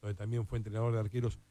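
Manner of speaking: quiet, grave tribute; somber. Real, not acted. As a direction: break sad news gently, with respectful pauses. Announces a former coach's death.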